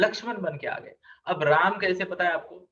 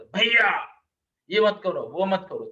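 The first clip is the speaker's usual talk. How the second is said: interrupting brother. Retold or imitated. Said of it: "ऐसे बीच में टोकता था".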